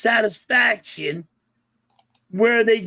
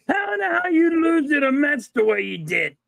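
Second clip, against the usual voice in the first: higher-pitched sports fan griping; exasperated fan rant; 4 semitones higher than usual. Pretend. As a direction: rant like a let-down Phillies fan. Mock outburst at the Phillies.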